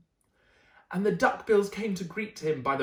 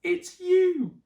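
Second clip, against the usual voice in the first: laughing reply; 12 semitones higher, 6 dB louder than usual. Acted. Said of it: "And they laughed and said".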